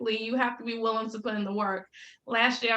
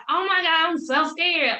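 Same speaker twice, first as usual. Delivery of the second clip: mock-panicked, higher and louder; retold panic; 7 semitones higher, 5 dB louder than usual. Retelling a call to her cousin about quitting a job, panicked. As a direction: replay a scared outburst, pitched up.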